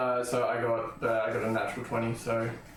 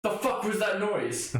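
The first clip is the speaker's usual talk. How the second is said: higher, slow incredulous question; acted bewilderment; 7 semitones higher than usual. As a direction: play it baffled, drawing the words out. Player voices startled reply in scene.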